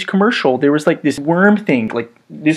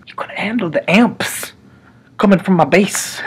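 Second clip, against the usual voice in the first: mock whisper; 4 dB quieter than usual. Telling viewers the joke in a mock whisper. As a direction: confide the joke slyly.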